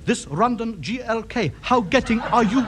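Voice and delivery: deliberate, word-by-word delivery; simplify it painstakingly for a listener with little English; slow pidgin English. Acted. Radio ham struggling to reach Tokyo contact, slow pidgin English.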